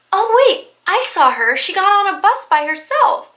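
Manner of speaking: put-on eager little girl. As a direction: pipe up like a kid with news. Voicing the ten-year-old girl.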